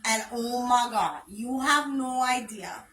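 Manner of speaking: a sassy Puerto Rican Brooklyn accent, played up; a hint of a Boricua Brooklyn girl getting heated. Shown as a demonstration. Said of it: "Esa Boricua Brooklyn Girl".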